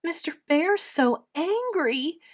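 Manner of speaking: put-on high child's wail; acted high-pitched wail. A narrator's reading. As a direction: lament like an upset little girl. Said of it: "Edith wailed".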